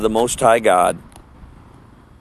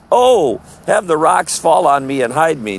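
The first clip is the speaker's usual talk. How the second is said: mock dread; 3 semitones higher than usual. Preacher imitating God's enemies begging rocks to hide them, mock dread. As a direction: put on a mildly hammed-up cry for cover.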